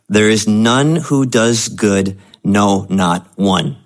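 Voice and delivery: slow, gentle and kindly, as if good news; pleasant inflection. Real, not acted. Pastor reading verse to congregation, pleasant and slow. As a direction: reads harsh scripture sweetly. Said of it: "I was reading that with, like, a pleasant inflection".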